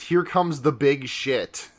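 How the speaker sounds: slow, deliberate note reading; reading a note slowly. Retold or imitated. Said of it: "one of my next notes says".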